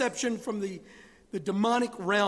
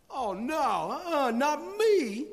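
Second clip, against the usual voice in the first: higher, slow mock protest; boastful Peter; 7 semitones higher, 4 dB louder, slower than usual. Peter insisting to Christ he won't fall, mock-boastful and higher. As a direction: ham up a cocky disciple brushing it off.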